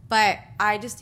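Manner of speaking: talking through a yawn. Real, not acted. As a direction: yawn mid-word. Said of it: "you making me yawn".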